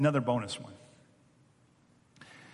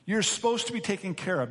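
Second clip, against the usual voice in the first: slow, high, pointed jab, acted; drawn-out accusing question, easing at the end; angry older brother; 6 semitones higher than usual. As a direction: needle him with mock angry scorn. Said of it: "Notice his anger has turned".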